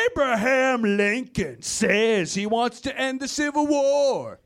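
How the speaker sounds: lightly voiced insinuating ad read; attack ad narrator. Smear ad against Lincoln, insinuating narrator. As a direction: drop the hint like a smear ad. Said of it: "ads just like".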